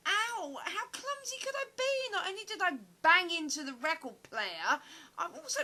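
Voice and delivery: high, loud yelps of pain after stubbing her toe; crying out in pain. Acted. Clumsy actress wails in pain after tripping over the record player, loud and high.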